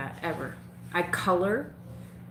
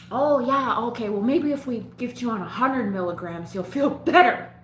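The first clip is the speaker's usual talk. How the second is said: mock doctor voice; 5 semitones higher, 5 dB louder than usual. Quoting the doctor.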